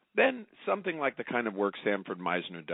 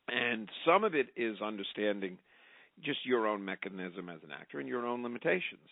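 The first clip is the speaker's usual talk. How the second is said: ordinary talk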